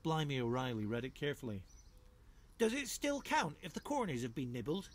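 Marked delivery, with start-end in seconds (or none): 2.6-4.9 doubtful passer-by. Acted. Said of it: "he asked".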